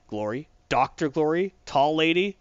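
mildly frantic retold disbelief, each question rising; freaking out. Connor reacts to hearing Doctor Glory left, mock freak-out. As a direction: act out mounting incredulous questions. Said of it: "To which Connor freaks out".

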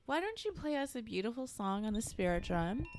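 lightly hammed-up fortune-teller intoning; a hint of a ceremonial host; mock mystic ritual voice. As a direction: play the solemn card reader, half joking. Leads a mock ritual over music.

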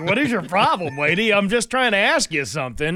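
hammed-up fed-up stranger; mock exasperated man. Host mimics the parking lot man, mildly exasperated. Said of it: "he was like".

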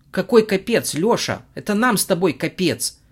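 high, loud panicked shout. Acted. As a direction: yell it in panic. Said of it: "кричала Юля". (крик)

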